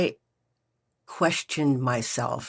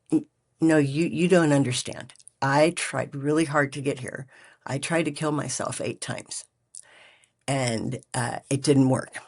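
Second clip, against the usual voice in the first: angry pleading. Retold or imitated. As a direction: argue back hard, then beg to stay. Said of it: "I got really angry".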